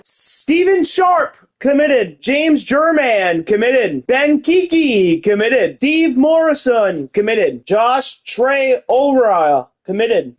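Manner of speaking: each name drawn out, then committed; slow recruiting announcement. Acted. Streamer announces each recruit slowly to viewers. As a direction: read each signing like a big reveal.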